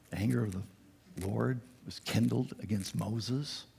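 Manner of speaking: ominous repeat. Acted. Preacher repeating the verse, slow and ominous. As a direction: let the threat sink in. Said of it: "repeats ominous verse".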